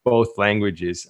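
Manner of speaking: English with a light Quebec French accent; French Canadian accent. Real, not acted. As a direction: bilingual Quebecer speaking English. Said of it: "that's my French Canadian accent".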